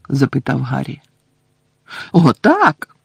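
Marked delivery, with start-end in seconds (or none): 2.1-3.0 loud fierce squeak; fierce elf. Acted. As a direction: snap it fiercely. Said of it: "люто закивала". (люто)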